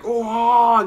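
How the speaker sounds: high, loud burst of joy; excited yelp. Retold or imitated. Reunited friend yelping with joy at Senku. Taiju rushes to hug Senku.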